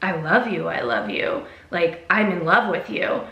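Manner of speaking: low, insistent imitation of a smitten fan; earnest confession. Fan insistently confesses his love.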